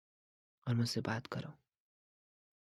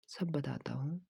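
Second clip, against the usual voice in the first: whispered promise; 5 dB quieter than usual. Acted. Trainer whispering to client so gym won't hear. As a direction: whisper it so no one overhears.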